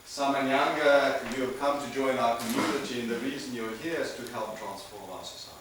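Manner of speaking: a university rector solemnly welcomes the speaker on his first day; imagined rector welcoming a student. Pretend. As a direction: address the new student like a rector at an opening ceremony. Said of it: "the rector of the university had stood up on the first day and said".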